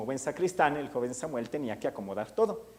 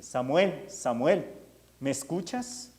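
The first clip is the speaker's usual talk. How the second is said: calling more strongly; 3 semitones higher, slower than usual. Acted. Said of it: "esa voz con más fuerza".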